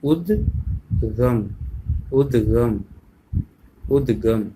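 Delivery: उद्गम said slowly, then repeated; उद्गम, the first time stretched very slow; careful demo. Shown as a demonstration. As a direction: model उद्गम with a clear द्-ग cluster. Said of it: "इन कठिन शब्दों का हमें जो है, अ, उच्चारण करना सीखना है".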